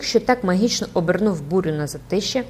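plain reading voice

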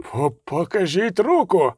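slow, stammered splutter; spluttering priest. A narrator's reading. Priest demands to see Regis's hand, spluttering. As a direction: splutter out a demand, tripping on the first word. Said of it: "забулькотів жрець".

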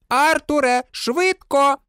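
high-pitched cry to hurry; urgent yell. A narrator's reading. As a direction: cry out in a high voice to your husband. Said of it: "закричала місіс Візлі". (високий нетерплячий вигук)

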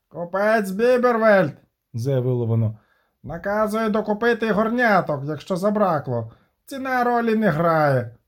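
an odd rasping servant's voice; hoarse creature messenger. Acted. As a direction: croak it out like a forest creature. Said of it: "прохрипіло щось у хутрі".

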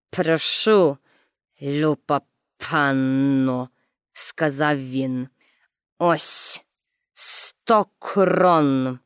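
furious director handing Pippi the prize money; grudging director. A narrator's reading. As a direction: force out politeness through gritted teeth. Director hands money, wants to eat her.

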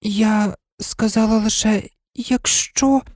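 a mild, hurt excuse; timid protest; plaintive. Acted. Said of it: "жалібним голосом".

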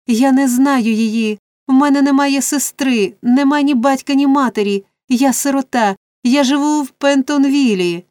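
high, pleading protest; frightened cry. A narrator's reading. Orphan boy denying he knows her, frightened cry. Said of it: "злякано закричав Олівер".

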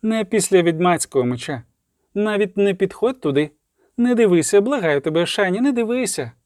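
high, pleading voice; urgent pleading. A narrator's reading. Man begs medic not to look, urgent pleading. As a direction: beg her desperately to stay away.

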